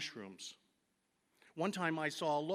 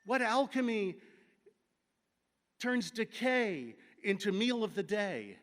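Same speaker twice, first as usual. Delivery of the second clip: awed; 4 semitones higher, 4 dB louder than usual. Real, not acted. Awed exclamation over mushrooms.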